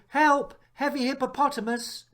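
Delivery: mock cry for help. A narrator's reading. Narrator yelping Horace's fall into the trap. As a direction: squeal it as you tumble. Comic exclamation as he falls.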